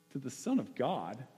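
normal talking voice

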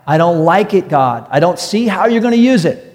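a touch of exasperation, words leaning hard; pleading complaint. Acted. Preacher voices a wronged believer questioning God, pleading complaint. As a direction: protest to God, stretching the key words.

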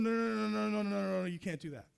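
rapid-fire run of refusals, winding down; mock frantic protest; alarmed objection. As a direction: hurriedly stop someone in their tracks. People objecting to God's action.

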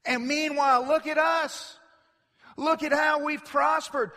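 boasting. Acted. Wicked boasting of prosperity.

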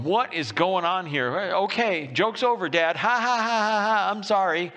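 mock freaking out. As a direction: play a son starting to panic at his dad. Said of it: "Isaac's gotta be freaking out".

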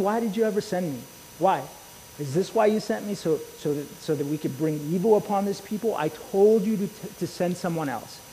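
half-acted frustrated prayer to God; frustrated Moses.

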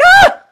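loud, high shriek of fright; mock terrified scream. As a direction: scream like you just saw an angel. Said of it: "people are just like".

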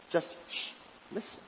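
preacher hushing the room, whispered shh; soft, hushed urge to listen. Shown as a demonstration. Preacher telling congregation to listen for God, hushed.

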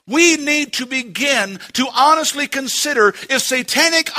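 insistent, driving sermon delivery; urgent preaching. Acted. Preacher urging church to take up weapons, insistent. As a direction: press the congregation toward a decision.

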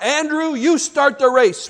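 put-on high-pitched boyish call, only mildly shouted. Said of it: "comes the shout".

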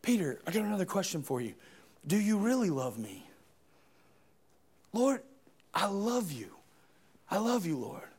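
very soft, low voices; hushed dialogue. Acted. Jesus and Peter exchanging soft words of love. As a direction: keep it intimate and hushed.

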